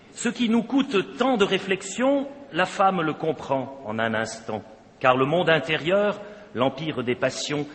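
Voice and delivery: déclamation lente d'un poème, avec de l'ampleur; réciter le poème comme devant une assemblée; poème déclamé. Shown as a demonstration. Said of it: "que je vais d'abord vous déclamer". (lecture déclamée d'un poème)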